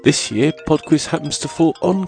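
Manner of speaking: blocked nose from a cold; sniffly nasal voice. Real, not acted. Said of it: "I apologise for my nasal and sniffly voice".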